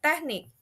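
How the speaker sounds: "teknik" stressed on NIK; stress on last syllable. Shown as a demonstration. Teacher gives an example, "teknik" stressed on NIK. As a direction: lean on the end of "teknik". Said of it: "at the end of the word".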